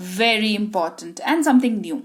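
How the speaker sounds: very slow, deliberate stress on the point; slow it down to stress importance; slow emphasis. Shown as a demonstration. (धीरे, ज़ोर देकर)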